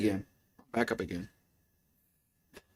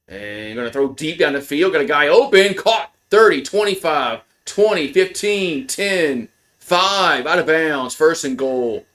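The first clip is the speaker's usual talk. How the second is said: excited play-by-play call, rising as the receiver breaks open; 2 semitones higher than usual. Acted. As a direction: count off the yards like a sports announcer. Live play-by-play of game.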